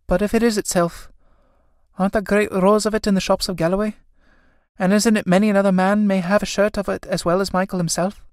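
doubting sister. Acted. Kathleen doubts it is Michael's shirt, high questioning.

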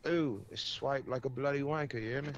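light mock British accent on bloody wanker. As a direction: throw in a cheeky mock British insult. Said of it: "the British accent".

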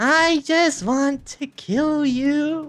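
creepy slow killer voice. Pretend. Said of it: "Jeff just wants to play".

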